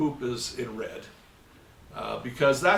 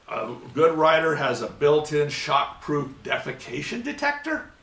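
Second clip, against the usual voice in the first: mocking disbelief; 4 dB louder than usual. Lecturer mocks official's suggested word, rising in disbelief. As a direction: test the silly word out loud.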